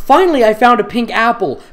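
high, loud overacted line; loud exaggerated reading. Shown as a demonstration. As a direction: belt it out like a bad actor. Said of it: "Those were different paragraphs".

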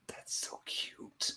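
slow, voiceless whisper of adoration; hushed cooing. Real, not acted. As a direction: coo it very softly, all breath. Cooing over a Bulbasaur plush.

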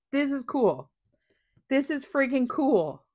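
excited amazement. Real, not acted. Crafter admiring the stencil to viewers, loud excited amazement. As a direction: declare it loudly, thrilled.

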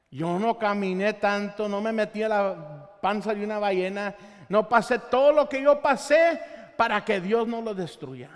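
Jonah's loud, resentful rant; angry Jonah. Acted. Jonah complaining to God about all he went through, loud and bitter.

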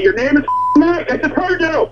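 irate accusation. Real, not acted. Customer exposes the fake agent.

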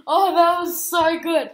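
high loud thrilled; buzzing with excitement; excited. Real, not acted. Thrilled after scare.

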